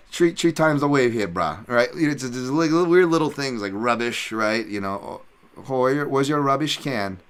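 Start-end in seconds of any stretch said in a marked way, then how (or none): 0.1-1.6 higher, louder Hawaiian pidgin; Hawaiian pidgin accent. Shown as a demonstration. Islander calling a wave to a brah, Hawaiian pidgin accent. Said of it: "with our weird accents". 5.6-7.2 slightly raised Hawaiian pidgin voice; Hawaiian pidgin accent. Shown as a demonstration. Islander asking for the rubbish can, Hawaiian pidgin accent. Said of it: "our Hawaiian pidgin English".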